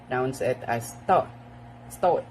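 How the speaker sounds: British sto; British start. Shown as a demonstration. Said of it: "in British".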